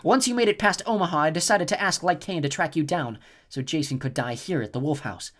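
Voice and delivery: a cruel goddess savouring her plan; cold snow goddess. A narrator's reading.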